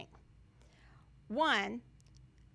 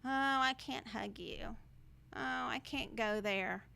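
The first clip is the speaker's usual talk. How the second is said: whiny mock excuse; 5 dB quieter than usual. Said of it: "Stop asking everybody to cut you slack".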